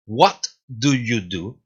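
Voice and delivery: What do you do? said slowly as one phrase rising at the end; slow connected question rising at the close; slow joined question. Shown as a demonstration. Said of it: "pronunciación".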